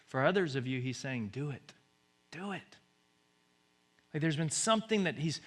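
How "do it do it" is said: God's whisper. Pretend. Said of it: "He's whispering".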